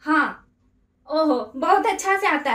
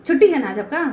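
louder, bitter jab; sarcastic anger; 4 semitones lower, 3 dB louder than usual. Real, not acted. Wife angrily mocking husband about his day off. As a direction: throw his day off back at him.

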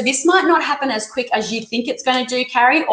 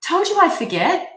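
higher, rueful self-scolding; flustered; 7 semitones higher than usual. Real, not acted. Reader scolding herself for forgetting, flustered. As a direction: laugh at your own forgetfulness. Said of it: "I'm getting far too excited".

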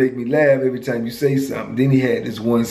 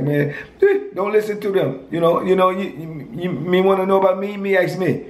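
put-on a raised Virgin Islands accent; 5 semitones higher than usual. Friend telling the speaker to ask him directly, in a Virgin Islands accent. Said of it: "I liked his accent".

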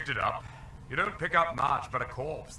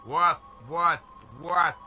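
talking dog voice. Acted. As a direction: preach like a smug dog. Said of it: "The dog is still talking".

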